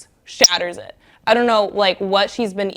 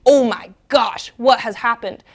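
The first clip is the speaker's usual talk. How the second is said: mock shock; 4 dB louder than usual. Bears discover someone broke in.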